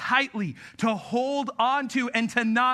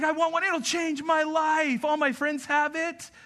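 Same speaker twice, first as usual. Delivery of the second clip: mock begging; 5 semitones higher than usual. Mimics son begging for phone.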